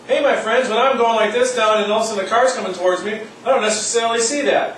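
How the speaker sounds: mock warning voice. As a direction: call out like an alarm inside the head. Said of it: "warning system that he's talking about".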